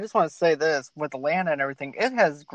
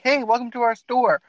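mock cheery store greeter, pitched up; higher-pitched, welcoming shop clerk impression; friendly greeting; 6 semitones higher than usual. Southern store worker greets visiting customers, friendly. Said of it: "no excitement, no nothing".

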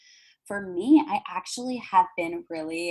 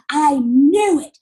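whisper; 8 semitones higher, 11 dB louder, much slower than usual. Retold or imitated. Clerk reacting to panic attack.

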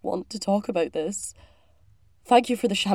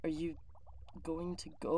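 low, soft, withdrawn question; cold dismissal; 3 semitones lower, 13 dB quieter than usual. Acted. Crewmate wants the other to leave, cold dismissal. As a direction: quietly show them the door.

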